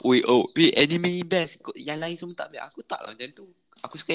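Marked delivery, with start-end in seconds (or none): 0.0-2.6 loud, preachy anime fan; mock pushy fan. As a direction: push it on them loudly. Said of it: "anime pun taklah aku macam".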